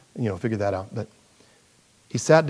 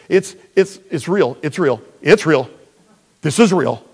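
insistent retold testimony; 6 dB louder than usual. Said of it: "And I said".

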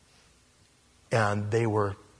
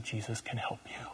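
quiet; 14 dB quieter than usual. Retold or imitated. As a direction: say it softly, close to him. Quietly comforting the possessed man.

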